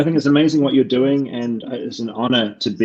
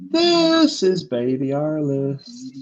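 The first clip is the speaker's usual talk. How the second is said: put-on slow, higher "This is Baby Alice"; drawn-out title read; 6 semitones higher, much slower than usual. Shown as a demonstration. Announcing the show title, drawn out slowly. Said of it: "a couple where you just say".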